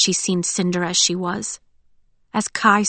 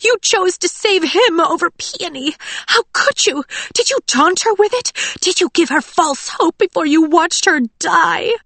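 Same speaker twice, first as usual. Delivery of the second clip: screaming; 11 semitones higher, 4 dB louder than usual. A narrator's reading. Audrey screaming accusations at Cinder. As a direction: spit the name like poison. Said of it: "Audrey was screaming now".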